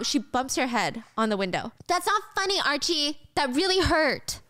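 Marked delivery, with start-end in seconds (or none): 1.9-4.4 high, whiny sibling complaint; acted-out wounded protest, pitched up; hurt indignation. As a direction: scold your brother for the prank. Acted sibling quarrel after head bump.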